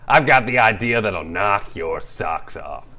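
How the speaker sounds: loud, slow New York wise guy; brash Brooklyn hustler talk; New York accent. Acted. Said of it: "With a New York accent".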